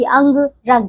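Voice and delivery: अंग and रंग said with the ng sound through the nose; nasal anusvar. Shown as a demonstration. Teacher showing children how अंग sounds through the nose. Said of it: "इसे नाक से बोला जाता है".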